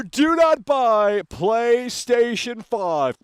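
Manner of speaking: deliberate slow decree; slow emphatic warning. Acted. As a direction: hammer every word home to the audience.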